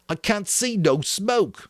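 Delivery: put-on slow, high, disbelieving boy; incredulous. A narrator's reading. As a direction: squint and doubt it. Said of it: "Piggy incredulously".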